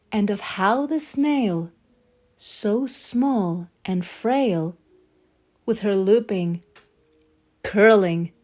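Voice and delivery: lilting storybook read-aloud; story narration. A narrator's reading. Reading The Snail and the Whale aloud to children, lilting storybook voice. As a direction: tell it like a bedtime picture book. Reads a picture book aloud.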